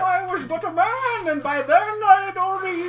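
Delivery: lightly voiced mock sob story; mock tragic lament. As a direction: play it as a hammy tragic memory.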